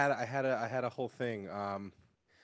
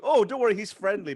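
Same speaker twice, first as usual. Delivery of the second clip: owner voice set high and loud; breezy dog owner, mocked; 7 semitones higher, 7 dB louder than usual.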